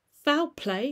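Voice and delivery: high, loud startled echo; startled cry. Acted. Lawyer alarmed by the butler, high startled cry. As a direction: fire the words back in alarm. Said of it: "cried the lawyer".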